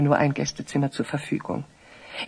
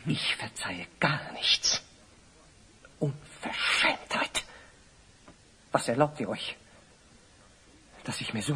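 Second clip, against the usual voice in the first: indignant; 3 semitones lower, 9 dB quieter than usual. Acted. Offended priest rebukes visitor.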